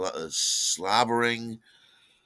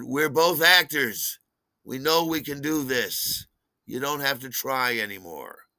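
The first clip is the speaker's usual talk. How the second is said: exasperated dismissal; 4 semitones higher than usual. Retold or imitated. Exasperated at friend's fake weeping.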